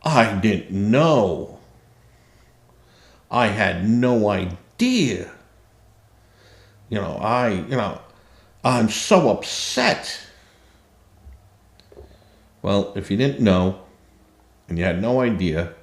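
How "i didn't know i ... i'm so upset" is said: mock whiny excuse. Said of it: "when I hear these people go".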